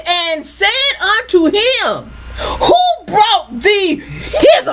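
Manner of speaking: slow, emphatic preacher's reading; scripture reading. Acted. Preacher reads travellers questioning the Levite, emphatic reading. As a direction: draw out the question with force.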